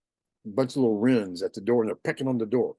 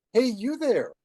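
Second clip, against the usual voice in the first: high-pitched bird call; goldfinch calling; 10 semitones higher, 3 dB louder, slower than usual. Acted. Goldfinch to man looking at his yard, high-pitched calling.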